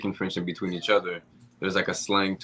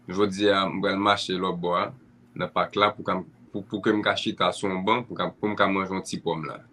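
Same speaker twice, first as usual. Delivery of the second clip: Haitian Creole. Shown as a demonstration. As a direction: say it the way family speaks at home. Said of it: "So in Creole, you would say".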